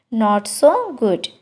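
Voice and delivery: slow, careful model phrase; slow teacher demo of the English. Shown as a demonstration. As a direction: spell it out slowly for learners. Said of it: "slow model phrase".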